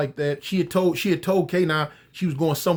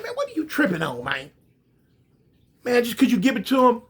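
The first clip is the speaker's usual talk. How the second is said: laughing disbelief; 5 semitones higher than usual. Acted. Cop laughs at the request.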